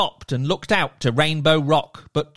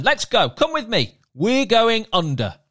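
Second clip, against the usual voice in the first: merman; 6 semitones higher than usual. Acted. Merman character voiced.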